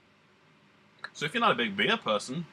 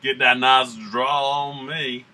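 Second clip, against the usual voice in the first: put-on southern accent; 5 dB louder than usual. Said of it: "which is how I'm talking right now".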